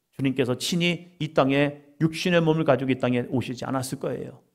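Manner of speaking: ordinary talk, nothing marked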